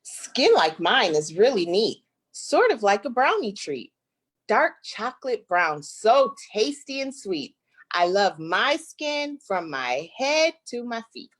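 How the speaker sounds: lively, sing-song picture book reading; reading to children. Acted. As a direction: read it like a rhyming story to little kids. Reads picture book aloud.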